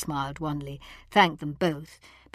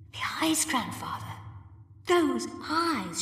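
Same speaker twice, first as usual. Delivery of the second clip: much higher, startled cry; frightened cry; 11 semitones higher, 3 dB quieter than usual. A narrator's reading. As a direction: gasp it out in fright. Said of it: "she cried".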